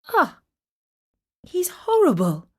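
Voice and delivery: high, loud disgusted cry of a princess; exclaimed in disgust. A narrator's reading. Princess recoiling from the satyr, loud and disgusted. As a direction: recoil from the ugly beast. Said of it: "exclaimed Zoe".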